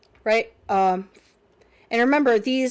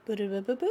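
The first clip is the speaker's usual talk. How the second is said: idle booping; 7 dB quieter, much faster than usual. Real, not acted. Idle noise while working at computer.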